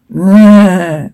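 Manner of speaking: drawn-out mock sneeze noise; acted sneeze. Narrator acts Red Hood, mock sneeze. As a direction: put on a voiced sneeze. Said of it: "Red Hood sneezed".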